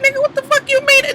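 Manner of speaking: high, fast, incredulous snap; indignant retort. Retold or imitated. Kamaya answering Fizz's appetizer line, a high quick indignant retort. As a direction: fire it back, offended and quick. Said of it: "This bitch was like".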